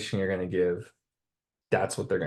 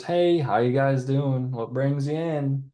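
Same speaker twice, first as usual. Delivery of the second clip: higher, slow, chirpy salesman hello; car salesman greeting; 5 semitones higher, slower than usual. Retold or imitated. Car salesman greeting customers pulling up, slow and high. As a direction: play the eager lot salesman, drawn out. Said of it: "after the salesman goes".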